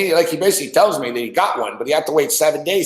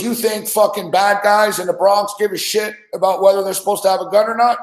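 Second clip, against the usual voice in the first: retold anger; 5 semitones higher than usual. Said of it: "he starts getting mad".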